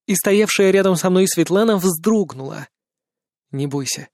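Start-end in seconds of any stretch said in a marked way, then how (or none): 3.5-4.1 softer, close to her ear; calm her down gently; soft reassuring whisper. A narrator's reading. Narrator reassures frightened Svetlana, softly. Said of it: "шепнул я ей".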